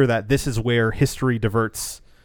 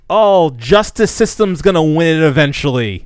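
mocking movie voice; 3 semitones higher, 7 dB louder than usual.

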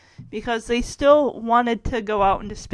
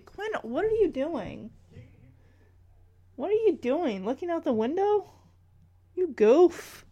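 higher, softer chiding of a cat; playful pet talk; 4 semitones higher, 4 dB quieter than usual. Real, not acted. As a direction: fondly tease a misbehaving pet.

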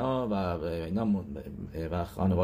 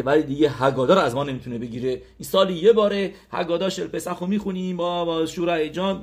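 higher-pitched, heartfelt complaint; indignant protest; 5 semitones higher, 4 dB louder than usual. Acted. Host objecting to his wife about guest's condition, indignant protest. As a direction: plead the case with rising exasperation.

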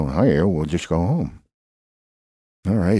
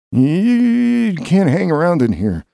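high, loud and slow telling-off; loud scolding; 11 semitones higher, 5 dB louder, slower than usual. Acted. Shouting at Bessie to leave the Safeway. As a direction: shoo her out firmly.

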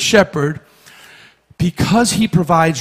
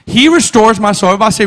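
loud lead-in; 3 semitones higher, 5 dB louder, faster than usual. Shown as a demonstration.

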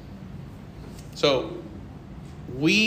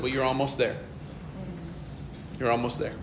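soft reply; 5 semitones lower, 11 dB quieter, faster than usual. Retold or imitated. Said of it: "I said".

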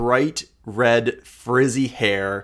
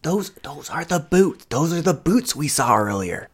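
higher character voice, insistent; Sorrel; 6 semitones higher than usual. Acted. Sorrel explains to uncomprehending Marin, insistent. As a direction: spell it out, pitched up.

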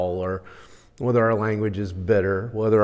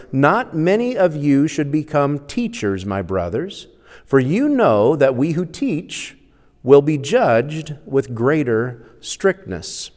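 emphatic, raised scripture-reading voice; 3 semitones higher, 4 dB louder than usual. Acted. Preacher reading James to the church, emphatic. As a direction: read the verse out firmly to a congregation.

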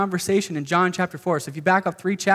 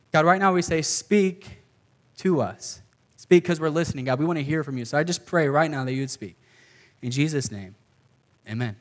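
prayer. Acted. Leads a prayer.

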